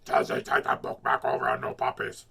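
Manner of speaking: whispered, unvoiced impression of Miss Christie. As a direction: breathe the warning out in a whisper. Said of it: "I will do a Miss Christie impression".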